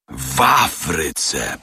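slow, marvelling repetition; repeated with wonder. Acted. Servant marvels at being in Africa, slow wonder. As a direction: savour the word, amazed. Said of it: "powtórzył z podziwem obieży świat".

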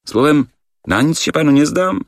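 high, pleading voice; disappointed question. Acted. The wanderer pressing the director, a touch pleading. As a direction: plead with a lifted voice.

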